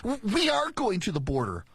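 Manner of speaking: mock insistence on "we are going"; mimicked inflection. Host demonstrating her inflection, mimicked indignant stress. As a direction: lean on "we are", as if affronted by the question. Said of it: "hear that inflection?".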